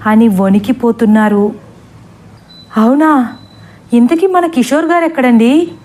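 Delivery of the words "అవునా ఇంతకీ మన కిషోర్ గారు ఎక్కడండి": a touch of tearful, higher pleading; mild mock crying question; asking while crying. Sarala madam asks where Kishore is, lightly tearful. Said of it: "ఏడుస్తూ అడిగారు".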